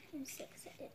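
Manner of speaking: excited ASMR whisper. Real, not acted. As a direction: whisper it softly, close up. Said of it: "I kind of wanted to do a little bit of A S M R".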